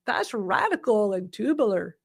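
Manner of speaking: put-on slow airy valley girl demo. Shown as a demonstration. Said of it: "in Valley Girl style?".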